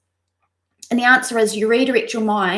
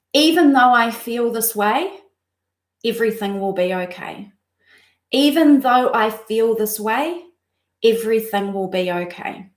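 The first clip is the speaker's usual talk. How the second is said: calm mantra recital. Shown as a demonstration. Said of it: "goes like this".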